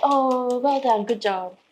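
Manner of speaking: imitating mild, polite congratulations; polite praise. Audience to the nervous singer, polite praise. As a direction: praise out of courtesy. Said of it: "everybody was very polite".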